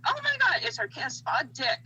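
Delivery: high-pitched mock squeal in put-on English accent; re-enacted fangirl squeal, starting very high; excited squeal. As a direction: imitate squealing fans, voice leaping high and loud. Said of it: "we're squealing".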